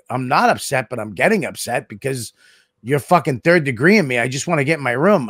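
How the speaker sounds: getting upset. Retold or imitated. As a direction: insist with contained annoyance. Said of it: "you seem a little upset".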